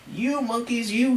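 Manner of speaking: high, mildly cross storybook scolding. A narrator's reading. Peddler shaking a finger at monkeys, mild scolding. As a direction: tell them off with a mock sternness. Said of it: "shaking a finger at them".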